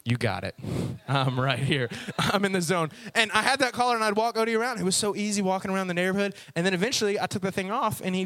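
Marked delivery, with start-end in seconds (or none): 0.0-2.9 obedient dog. Acted. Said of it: "there's Odie stuck to her side".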